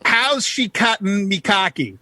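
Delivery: measured, spaced-out Newfoundland phrase; slowed down. Shown as a demonstration. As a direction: spell out each word slowly for learners. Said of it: "Slow it down a bit".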